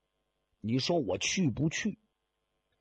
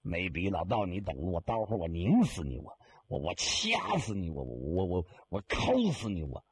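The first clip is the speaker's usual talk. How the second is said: low, sputtering furious threats under the breath; a man in a coffin cursing the mourner, kept low; seething threats; 7 semitones lower than usual. Acted. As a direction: stammer the threats, choking on rage. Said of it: "老头这个气呀".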